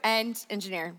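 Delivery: a light mock South African accent on engineer. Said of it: "It's that accent".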